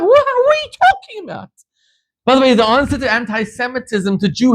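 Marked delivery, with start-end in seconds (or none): 0.0-1.5 shocked disbelief. Retold or imitated.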